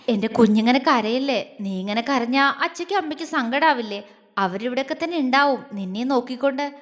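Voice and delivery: put-on gently comforting a crying girl; affectionate. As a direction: soothe her tenderly. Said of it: "അവൻ അവളോട് വാത്സല്യത്തോടെ പറഞ്ഞു". (വാത്സല്യത്തോടെ)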